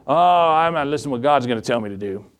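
mimicking a dismissive refuser; defiant refusal, lightly acted; mock defiance. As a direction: put on a stubborn, brush-off voice. Mimics people defying God.

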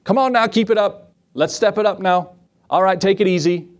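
lightly mock-shouted cadence calls; coxswain yelling. Coxswain calling his rowers in a mild mock yell. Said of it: "he yells out to him".

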